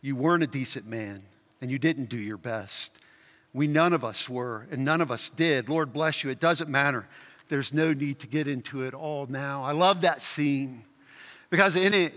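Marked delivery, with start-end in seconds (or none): 0.0-9.6 quiet, lower, understated heavenly friend. Acted. Heavenly friend corrects the ghost's boasts, quietly forgiving. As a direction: gently set the record straight, softly. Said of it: "friend from heaven says".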